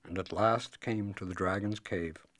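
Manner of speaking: hushed storyteller whisper. A narrator's reading. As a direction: breathe it, nearly voiceless. Narrator drops to hushed tone.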